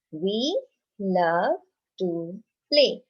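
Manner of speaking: teacher repeating a sentence for the class; slow repeat for class. Shown as a demonstration. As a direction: repeat it slowly for the children. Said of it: "let's read another sentence".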